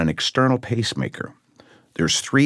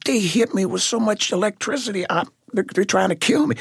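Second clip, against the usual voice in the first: retold panic; 13 semitones higher than usual. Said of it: "I said".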